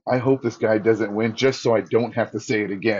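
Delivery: laughing confession. Retold or imitated. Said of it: "but I'm like".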